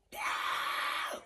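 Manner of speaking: hushed, voiceless imitation of a scream; stifled pretend wail; mock scream. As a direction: scream it without the volume. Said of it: "And I'm just screaming".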